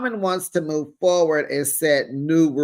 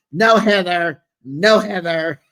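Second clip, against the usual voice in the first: loud cut-off; 6 dB louder than usual. Retold or imitated. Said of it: "Meredith cuts her off".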